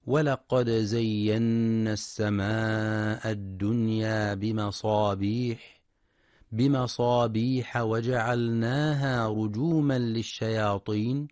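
slow melodic tartil chant; Quran recitation. Acted. Teacher recites a verse for listeners, measured chant.

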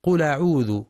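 قل أعوذ run together as "qula'udhu"; قل أعوذ with no glottal stop between; naql reading. Shown as a demonstration. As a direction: move the a of أعوذ onto the lam of قل. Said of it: "على غير رواية حفص بالنقل".

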